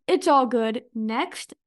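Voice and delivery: curt dismissal. Retold or imitated. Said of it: "So he just said".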